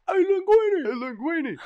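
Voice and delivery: high, loud call across the street. Retold or imitated. Hailing an old friend in his garage, loud high call. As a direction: shout his name to get his attention.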